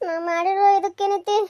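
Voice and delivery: a word caught in a sob; tearful, choked start; crying. Acted. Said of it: "ಅಳ್ಳಕತ್ತೀನಿ ನಾನು". (ಅಳುವಿನಲ್ಲಿ ಸಿಲುಕಿದ ಮಾತು)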